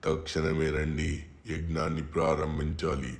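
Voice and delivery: distant call through a closed door; far-off summons from the yard; calling from outside. Acted. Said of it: "ఎవరు గట్టిగా బయట నుంచి అరుస్తున్నారు".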